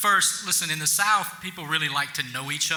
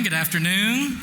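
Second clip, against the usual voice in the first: higher, more enthusiastic good afternoon; a bigger, brighter hello to the room; livelier greeting; 5 semitones higher than usual. Shown as a demonstration. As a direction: really greet the crowd this time. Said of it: "Try again".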